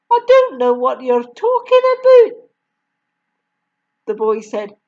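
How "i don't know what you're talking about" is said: high, bewildered protest; puzzled. A narrator's reading. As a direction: sound completely lost. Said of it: "more puzzled than ever".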